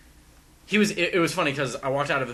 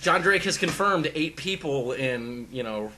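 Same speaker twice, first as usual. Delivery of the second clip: louder, higher mock announcement; mock official report; 4 semitones higher, 5 dB louder than usual. Podcaster reporting a joke scoop to co-hosts, mock official announcement. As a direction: proclaim it like breaking news. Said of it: "officially reporting it here".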